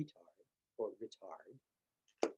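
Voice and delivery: "retard" said slowly with the stress on the first syllable, RE-tard; correct pronunciation. Shown as a demonstration. Teacher carefully pronouncing the Italian term "retard", slow with the first syllable stressed. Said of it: "the correct pronunciation with the emphasis on the first".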